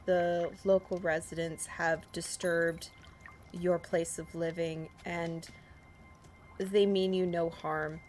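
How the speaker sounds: measured, solemn in-character appeal; formal plea. Acted. Player pleading with the fish for safe passage, formal plea. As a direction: speak it as a slow, careful petition.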